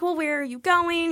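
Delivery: high, slow and sweetly nosy; mock flirty questioning. Passenger asking the pilot about his trip, mock flirty. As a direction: imitate a chatty passenger fishing for attention.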